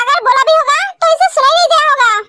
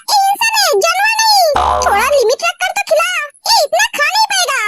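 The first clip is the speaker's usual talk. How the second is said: higher, teasing rebuke; scolding mom; 5 semitones higher than usual. Acted. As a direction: rein the daughter in, half joking. Mother scolds daughter for overfeeding.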